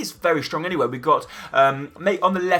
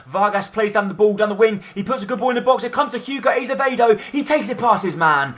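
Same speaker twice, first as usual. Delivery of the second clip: higher pitch rising through the move; excited build-up; 6 semitones higher than usual. Acted. Commentator calling the cross before the goal, excited. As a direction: lift the voice as the cross comes in.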